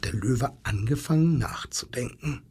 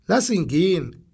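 wildcat shouting; 5 semitones higher than usual. Acted. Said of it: "schrie plötzlich die bunte Wildkatze".

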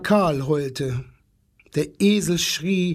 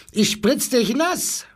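high-pitched mock yell as a seal; shouting seal; 10 semitones higher than usual. A narrator's reading. Seal threatens to splash the boy, high mock shout. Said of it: "schrie der Seehund".

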